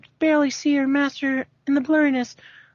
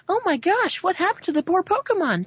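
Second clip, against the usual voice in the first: concerned nurse; 4 semitones higher than usual. Acted. Nurse Joy voiced in story.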